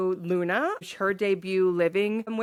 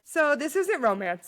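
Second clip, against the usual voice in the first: laughing quote; 6 semitones higher than usual. Retold or imitated. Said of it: "being like".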